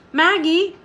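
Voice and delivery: Maggie called high with a rising tune; alarmed call. Acted. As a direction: call her name as she sways. Rider calls swaying girl.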